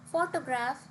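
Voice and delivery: "photograph" as PHO-to-graph; "photograph" with the weight up front; stress on first syllable. Shown as a demonstration. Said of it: "has the stress on the first syllable".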